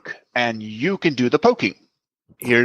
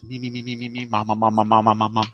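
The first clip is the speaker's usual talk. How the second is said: vocal warm-up; 4 semitones lower than usual. Shown as a demonstration. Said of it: "prepare my, my, my, um, best vampire voice".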